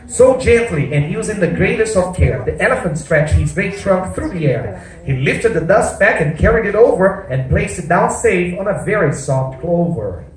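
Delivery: put-on rhyming, lilting read-aloud to children; story narration. A narrator's reading. Storyteller reads rhyming tale to the children, lilting narration. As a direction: read the verse with a performer's bounce.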